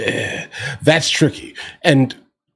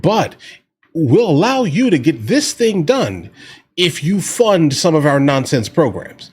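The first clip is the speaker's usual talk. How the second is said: higher, mocking politician voice; hammed-up sly lawmaker, slightly raised; mock Democrat dealmaker; 4 semitones higher than usual. Mocking Democrats in a backroom deal.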